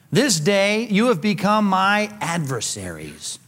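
slow, weighted declaration; acted grave accusation; solemn rebuke. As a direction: pronounce it slowly, word by word. Acting David's frustrated rebuke.

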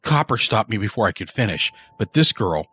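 a rough, rattled man confessing; gruff confessing killer. Acted. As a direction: spill it to the priest, uneasy. Early's confession to the priest.

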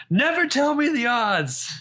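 high, slow, drawn-out heroic yell; slow hammed-up Han Solo line. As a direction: yell it like a movie hero. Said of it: "how badly I want Spencer to yell".

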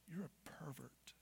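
low whispered accusation; accusing evil whisper. Acted. Evil accusing you to shame you, in a whisper. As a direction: whisper it as a damning verdict. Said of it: "can distinguish tone of voice".

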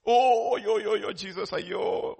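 loud put-on lament, slowing and fading; hammed-up drawn-out moaning; sentimental mock wail. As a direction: wail like an over-sentimental mourner. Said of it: "It's sentimental people".

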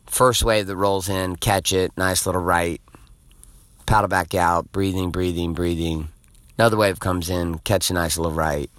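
low, even, unhurried telling; calm. Retold or imitated. Surfer recounting easy waves after breathing, calm.

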